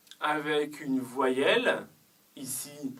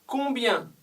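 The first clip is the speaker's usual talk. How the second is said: Combien lifted high and leaned on; the question word Combien carries the weight; stress on combien; 7 semitones higher than usual. Shown as a demonstration. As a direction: open the question by hitting Combien. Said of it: "Ici, on insiste sur la quantité".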